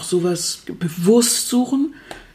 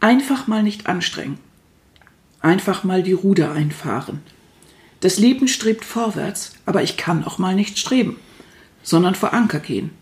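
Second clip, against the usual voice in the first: calm, unhurried poem recital; poem reading. Acted. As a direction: read it gently, line by line. Reads own short poem aloud.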